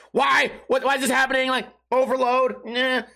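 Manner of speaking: high-pitched exasperated reaction; mock overwhelmed. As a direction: act out mild panic at drunk friends. Overwhelmed reaction to crying friend.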